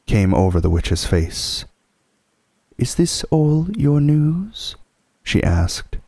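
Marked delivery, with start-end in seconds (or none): 2.8-4.8 slow, cruel witch question. Acted. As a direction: savour the threat slowly. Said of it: "slow, cruel smile".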